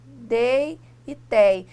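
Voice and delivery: "dei e tei" stretched slowly, each diphthong sounded; syllables drawn out. Shown as a demonstration. Teacher sounding out diphthongs for students. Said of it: "como aqui, ó".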